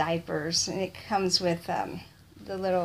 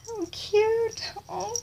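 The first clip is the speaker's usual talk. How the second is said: delighted squeal; 11 semitones higher, slower than usual. Real, not acted. Delighted at gift.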